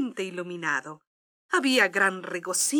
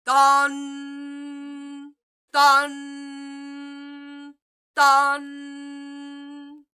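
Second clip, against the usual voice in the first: clock chimes; 3 semitones higher, much slower than usual. Acted. Clock strikes midnight.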